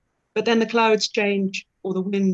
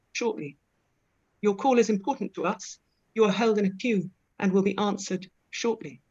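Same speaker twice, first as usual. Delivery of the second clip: sweet recorded hold message. Retold or imitated. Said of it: "you will be told".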